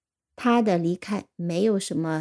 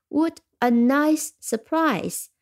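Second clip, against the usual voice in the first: slow, higher What a nice surprise, What stressed; delighted exclamation; 5 semitones higher, slower than usual. Shown as a demonstration. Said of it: "我们听几个例句". (放慢、提高音调，惊喜地感叹)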